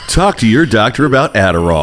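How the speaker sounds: booming announcer read; sports announcer voice. Pretend. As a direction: sell it like a sportscaster. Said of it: "there's the sports voice".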